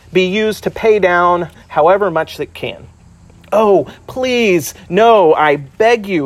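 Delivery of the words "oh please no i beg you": mild pleading. Acted. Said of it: "he asks".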